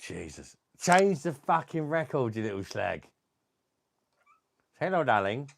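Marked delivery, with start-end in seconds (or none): 0.8-3.1 higher, fed-up telling off; exasperated scolding. Real, not acted. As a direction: drag it out, fed up. Exasperated at the parrot.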